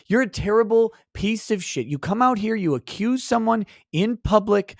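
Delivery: tearing into the chat on request, in mock fury; mock rant. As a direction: pretend to go off on a troll, pitch up. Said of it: "Go off on volume people like Scott".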